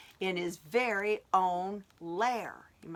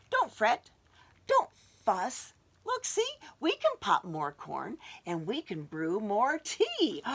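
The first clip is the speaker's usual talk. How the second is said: squeaky mouse; 2 semitones higher, 4 dB louder than usual. Acted. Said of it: "But Mouse squeaks".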